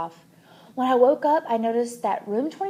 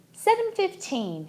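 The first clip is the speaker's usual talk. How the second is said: slow, higher answer; careful practice answer; 8 semitones higher than usual. A narrator's reading. Father practicing English with his wife, slow and high. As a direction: say it clearly for a learner.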